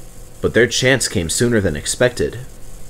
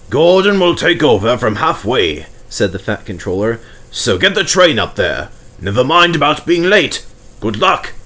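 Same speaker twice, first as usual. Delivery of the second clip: stern Fat Controller; 2 semitones higher than usual. Acted. Fat Controller voiced, far.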